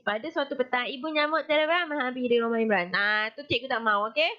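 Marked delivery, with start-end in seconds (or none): 0.0-2.9 rushed, careless read like a bored pupil; lazy reading. Shown as a demonstration. Teacher shows pupils the wrong way, lazy and rushed. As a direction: rattle it off fast with no interest. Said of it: "tak nak baca macam orang malas".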